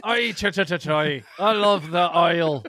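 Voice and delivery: loud, high, hammed-up Hawaiian accent. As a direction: shout it in a mock Hawaiian accent. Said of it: "That's the Hawaiian accent right here".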